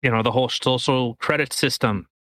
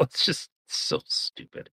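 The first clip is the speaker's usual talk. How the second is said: laughing exasperated; 8 dB quieter than usual. Real, not acted.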